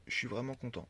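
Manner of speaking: burp breaking into the words; a burp slips out as you speak; talking while burping. Real, not acted. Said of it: "Excusez-moi, j'ai roté".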